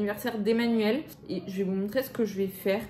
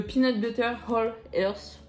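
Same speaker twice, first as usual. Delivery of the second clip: English brand name in a French accent. Real, not acted. Vlogger naming a viewer-recommended peanut butter, French-accented English. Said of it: "Avec mon super accent".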